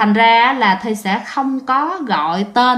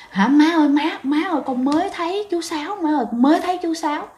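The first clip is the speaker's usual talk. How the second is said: put-on higher, hurried voice of a scared child; lightly acted panic, pitched up and rushed; frightened child; 6 semitones higher, faster than usual. Child telling mother about seeing chú Sáu, frightened.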